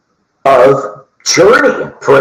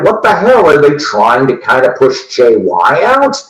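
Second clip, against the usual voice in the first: retold surprise. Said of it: "And I'm like".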